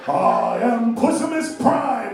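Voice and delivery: slow, loud robot hero voice; mock Optimus Prime. Comic parodying Transformers, slow booming hero voice. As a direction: boom it out like a Transformer leader.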